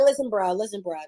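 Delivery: lightly voiced laid-back plea; trap-style Bartimaeus. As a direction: Bartimaeus paraphrased as Atlanta trap talk. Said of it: "making this an Atlanta trap version".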